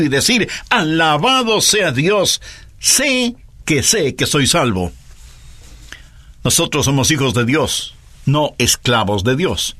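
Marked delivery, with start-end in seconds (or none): 0.7-4.9 slow, sure exclamation of praise; confident praise. Retold or imitated. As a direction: proclaim it standing tall, certain of salvation. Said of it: "como un signo de admiración totalmente erguido". (alabanza segura y lenta)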